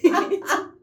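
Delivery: giggling through the line; laughing. Retold or imitated. Girl cracking up while faking a scene, laughing. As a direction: break into laughter mid-act. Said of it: "a mí me da risa".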